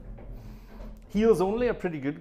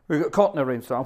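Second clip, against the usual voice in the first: louder, stressing caught; repeated with a louder punch on caught; emphatic repeat; 7 dB louder, faster than usual. Shown as a demonstration. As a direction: say it again, harder, for emphasis.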